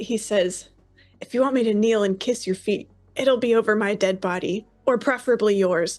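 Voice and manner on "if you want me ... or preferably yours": defiant voice through gritted teeth. Voicing a hero who refuses to kneel to an enemy: defiant, through gritted teeth. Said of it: "grits his teeth and gets back up".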